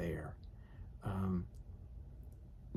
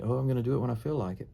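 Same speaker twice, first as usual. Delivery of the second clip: mock excuse; 3 semitones higher, much faster than usual. Mocking a reluctant excuse.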